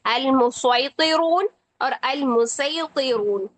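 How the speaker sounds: मुसैतिरून once with s, once with saad; two readings of मुसैतिरून; Qur'anic recitation. Shown as a demonstration. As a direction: recite अल मुसैतिरून both ways, slowly. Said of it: "सीन से भी ... स्वाद से भी".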